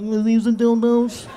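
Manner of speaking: slow, laughing, mortified question; embarrassed laughing. Retold or imitated. Embarrassed asking the clerk, laughing. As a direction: squirm through it with a laugh. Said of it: "You know how humil".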